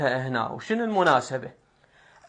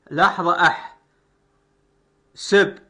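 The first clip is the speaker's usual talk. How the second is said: split by syllables; 4 dB louder than usual. Shown as a demonstration. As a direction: break the word into metrical beats. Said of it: "مو أحسبها".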